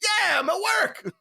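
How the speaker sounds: high, slow, laughing; grinning cheeky answer to his wife; laughing cheeky reply. Retold or imitated. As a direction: push it out through a laugh.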